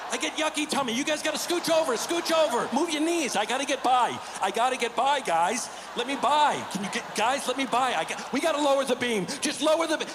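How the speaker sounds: a worker begging the guys to let him by; panicky worker. Pretend. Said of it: "the fifth guy in was like".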